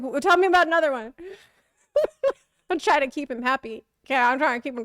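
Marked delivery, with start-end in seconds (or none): 0.0-1.1 quick, laughing ask for more; laughing request. Retold or imitated. Urging the driver on for another story, laughing. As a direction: rush it out through a laugh. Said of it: "I'm like".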